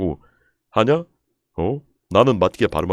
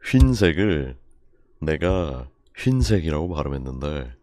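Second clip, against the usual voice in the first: ordinary talk, nothing marked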